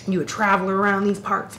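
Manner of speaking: lightly voiced gruff barfly, quick; a hint of smoky old-tavern stranger. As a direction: play a nosy drunk at the tavern bar. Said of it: "Why is your voice so smoky".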